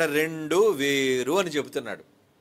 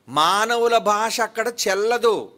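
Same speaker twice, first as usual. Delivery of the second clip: loud, higher and slow, each word driven home; forceful proclamation; 7 semitones higher, 8 dB louder, slower than usual. Real, not acted. Preacher telling the congregation human language fails there, loud and slow. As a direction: declare it like a verdict from the pulpit.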